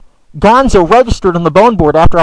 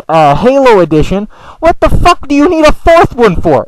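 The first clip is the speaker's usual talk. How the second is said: indignant; 2 semitones higher than usual. Retold or imitated. Outraged retort to friend.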